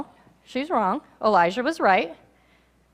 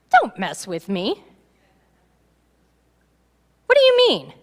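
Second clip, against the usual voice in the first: agitated; 4 dB louder than usual. Acted. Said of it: "But she's a little agitated".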